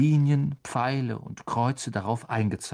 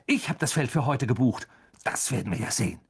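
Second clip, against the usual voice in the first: grim indignation; faster than usual. A narrator's reading. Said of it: "zischte Wood empört".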